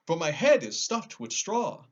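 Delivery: high, loud scarecrow objecting; a straw man protesting; lightly voiced scarecrow.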